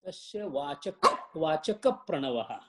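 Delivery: "Vachaka" closed with a p into "Pranavaha"; model pronunciation. Shown as a demonstration. Teacher correcting a student's verse, "Vachaka" linked as vachakap to "Pranavaha". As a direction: say "Vachaka" as vachakap, leaning into the Pra. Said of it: "see how it goes".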